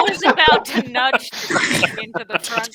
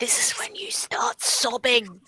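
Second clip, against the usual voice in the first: hushed whisper under the breath; 6 dB quieter than usual. Nudging a companion in the car and whispering an in-character aside: whispering in character. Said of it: "I gently nudge Angus and whisper".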